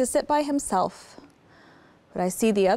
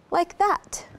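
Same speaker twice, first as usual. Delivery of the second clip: whisper; 6 semitones higher than usual. Shown as a demonstration. Showing how Peter walks.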